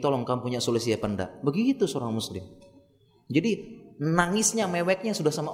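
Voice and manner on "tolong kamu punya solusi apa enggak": composed, quick request for advice; acted steady, matter-of-fact appeal. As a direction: ask a brother calmly for help. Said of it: "menghadap dengan manusia sudah tegar".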